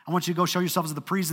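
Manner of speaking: rattled off fast and casual; quick casual paraphrase. Retold or imitated. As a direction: toss it off quickly, like an easy instruction. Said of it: "kinda like this little faith step".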